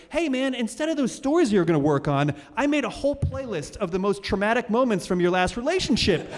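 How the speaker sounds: a hint of a cheeky inner voice; brain talking.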